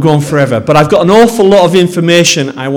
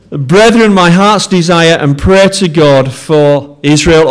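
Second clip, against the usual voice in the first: scripture reading; slower than usual. Acted. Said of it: "I want to read these words to you".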